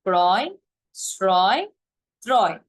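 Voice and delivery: ক্রয়, শ্রয়, ত্রয় each with the open ɔ sound, clear and separate; teacher's clear word-list reading; open vowel demo. Shown as a demonstration. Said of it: "অধ্বনি রূপে উচ্চারিত হবে".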